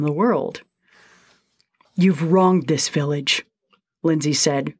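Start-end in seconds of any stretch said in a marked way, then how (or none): 1.9-3.5 tremulous voice. Acted. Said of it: "her voice tremulous with feeling".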